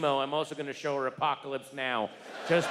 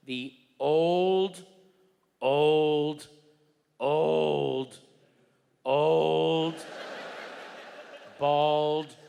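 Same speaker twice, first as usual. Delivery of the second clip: each word punched louder; drawn out build; 5 dB louder, much slower than usual. Acted. Comic building suspense about the old man, louder punched words. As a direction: hammer every old with a pause. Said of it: "drawn-out comic build".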